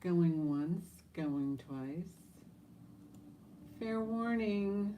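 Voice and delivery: auctioneer. Acted. Auction call before sale.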